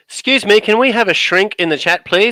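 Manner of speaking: hammed-up call for help; mock plea. Deflecting his cohost's jab, a loud mock plea to chat.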